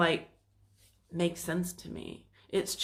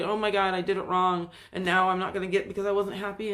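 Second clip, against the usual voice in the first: louder mock fretting, rushed; 4 dB louder, faster than usual. Quoting someone who thinks they ruined it, mock fretting. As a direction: blurt it out like a worrier. Quoting self-blaming thoughts.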